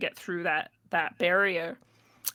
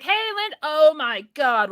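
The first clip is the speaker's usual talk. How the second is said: startled friend; 8 semitones higher, 8 dB louder than usual. Retold or imitated. Friend spots her in the parking lot, alarmed. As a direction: catch sight of her and recoil.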